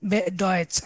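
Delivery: very slow, word by word German; slow model sentence. Shown as a demonstration. Teacher modelling German for students, very slow. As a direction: dictate it slowly. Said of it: "তাহলে und মানে হচ্ছে এবং".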